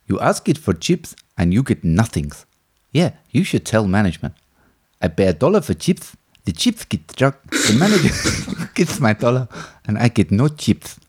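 lightly voiced movie characters, near own voice; a hint of the oddball diner scene, deadpan; Greasy Strangler impression. Impression of the chip shop scene for his co-host, lightly voiced. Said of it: "This is his movie impression".

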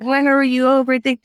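mock-pleasant pleasantries; put-on politeness. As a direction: act out a quick, civil greeting. Acts out newly polite small talk.

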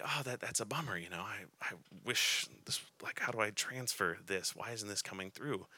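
mean it, a real sigh of regret; genuine disappointment. Retold or imitated. Preacher sincerely sorry his encouragement doesn't land. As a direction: quietly let down, sincere. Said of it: "I would genuinely feel bad".

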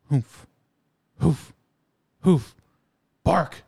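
ramp up from huffs to barks; dog huffs. Retold or imitated. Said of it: "he'll just go".

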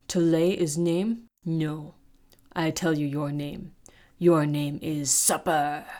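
lightly voiced orc savouring the threat; mocking orc leader. Orc leader mocks the captive girl.

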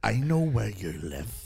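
hammed-up threat with long, strained pauses; mimicking weird pauses. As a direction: start low and ominous, swell into a drawn-out shout. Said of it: "weird pauses in his speech pattern".

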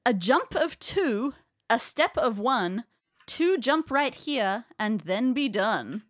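slow, measured inscription read; slow riddle reading. Acted. GM reads riddle slowly.

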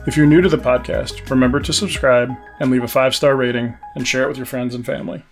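upbeat show sign-off over music; podcast outro. Acted. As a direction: wrap up the show like a host.

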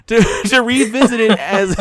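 breaking into giggles mid-sentence; laughter bubbling through the words; trying not to laugh. Real, not acted. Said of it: "I'm trying to be serious".

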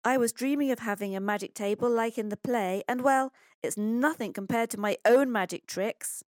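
eager child's discovery, voiced by a storyteller; excited boy Pablo. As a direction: marvel like a delighted boy.

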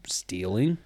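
breathy whisper on stealing. Acted. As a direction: let the word slip out in a whisper. Whispered key word of story.

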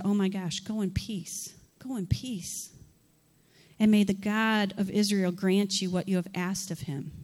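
gentle and kind; soften, send her off kindly; soft, understanding. Acted. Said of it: "softness there. There was understanding".

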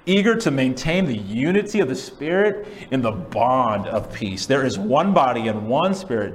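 emphatic, rhythmic proclamation; declaimed scripture verse; loud scripture reading. Real, not acted. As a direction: read it out, leaning on key words. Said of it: "read those aloud and loudly".

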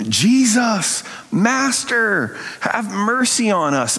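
high pleading call from afar; distant cry. Retold or imitated. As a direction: call out high, begging for mercy. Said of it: "he hears this cry".

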